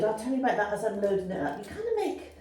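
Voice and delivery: chuckling through the words, rising into a laugh. Real, not acted. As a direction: laugh softly as you explain. Laughing while loading the fire.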